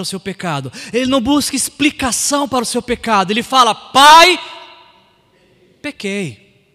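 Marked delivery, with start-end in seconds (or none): 3.7-4.4 loud, high cry; calling out. Acted. Prodigal son addressing his father before confessing, loud call. 5.8-6.7 softer admission after the cry; sober confession. Acted. Son admitting his sin to his father, soft confession.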